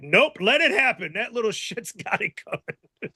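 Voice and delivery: lightly voiced callous bystander; mock Isaiah. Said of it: "I could just see Isaiah being like".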